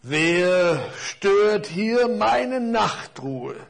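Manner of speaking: leicht angedeuteter tiefer, langsamer Baum; tiefe Stimme. Acted. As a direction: langsam und gewichtig sprechen. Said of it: "sagte mit tiefer Stimme". (ein Hauch von tiefem, altem Baum)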